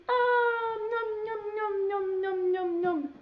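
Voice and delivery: high nom nom chomping; high puppet munching; goose eating. Pretend. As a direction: gobble the seed like a happy puppet goose.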